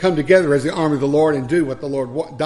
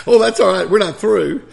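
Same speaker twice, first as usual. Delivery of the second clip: put-on angry old man; 6 semitones higher, 9 dB louder than usual.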